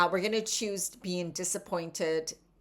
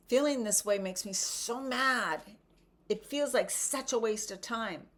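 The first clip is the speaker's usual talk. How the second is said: a touch higher, fed-up griping; mock frustrated venting; 4 semitones higher than usual. Shown as a demonstration. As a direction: vent like you're sick of being stuck. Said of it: "like you're talking to a friend or yelling because you're frustrated".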